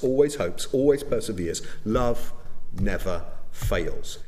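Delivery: measured, solemn reading of the passage; scripture reading. Acted. Pastor reading the love chapter to the congregation, solemn and measured. Reads 1 Corinthians 13 aloud.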